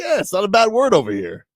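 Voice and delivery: high put-on British accent. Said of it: "had to do my British accent".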